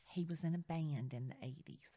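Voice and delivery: hushed, secretive whisper; retold confidential whisper; whispered aside. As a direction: lean in and whisper it. Agent confiding about the seller.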